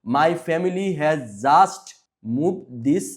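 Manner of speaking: just stressed in a slow reading. Shown as a demonstration. Teacher reads the story sentence to pupils, slow with stress on just. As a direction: read slowly, leaning on just. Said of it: "এগুলো একটু জোর দিয়ে পড়তে হবে".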